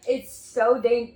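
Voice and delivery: loud, drawn-out SO; exaggerated alarm. Russian mocking how compatriots overstate danger, exaggerated alarm. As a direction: overdramatise it, leaning long on "so". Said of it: "Russians are exaggerating how dangerous Russia".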